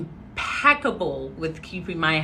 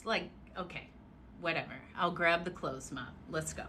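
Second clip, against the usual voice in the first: much softer, giving in; resigned; 2 semitones lower, 15 dB quieter, faster than usual. Retold or imitated. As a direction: sigh it off, resigned. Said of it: "resigned teen reply to mom".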